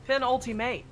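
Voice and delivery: Penultimate as "peh-nol-tee-may", nasal first vowel, silent ending; fancy pronunciation. Shown as a demonstration. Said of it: "There you go".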